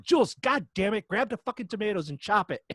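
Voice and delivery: hammed-up panic at a teammate; frantic game yell. Mom shouting at daughter in chaotic game, frantic. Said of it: "I'm like".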